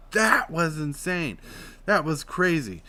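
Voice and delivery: belly voice demo. Shown as a demonstration. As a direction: push the air up for emphasis. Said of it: "When I say that, I'm like".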